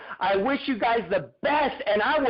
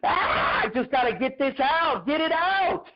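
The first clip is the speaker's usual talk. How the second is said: mild mock yell; 3 semitones higher than usual. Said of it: "yell from the top of my lungs".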